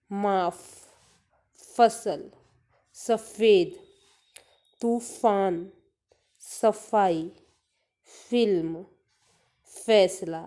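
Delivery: each word read with the "फ़" stretched into a long f; teacher drawing out the "फ़" as a breathy f, not ph; drawn-out फ़ sound. Shown as a demonstration. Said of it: "उसका उच्चारण भी हम खींच के करते हैं". (फ़ को खींचकर पढ़ना)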